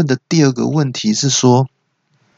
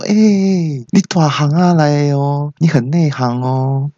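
pleased, higher and drawn-out praise; delighted; 4 semitones higher, slower than usual. Acted. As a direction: gush slowly to a fellow expert. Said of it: "然后我就高兴的回说". (高兴地拉长音夸赞)

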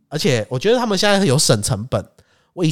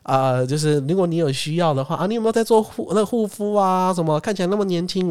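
high, eager sales patter; mock salesman's patter; salesman pitch; 6 semitones higher than usual. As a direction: mimic the pushy skincare pitch. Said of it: "介绍说".

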